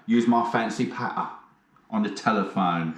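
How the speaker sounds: lightly crooned chat-up line; smooth fancy patter. Shown as a demonstration. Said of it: "you gotta say it like that".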